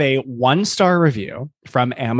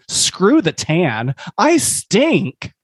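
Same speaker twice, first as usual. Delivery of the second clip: dramatic despair; 5 semitones higher, much slower than usual. Acted. Dramatic review reading.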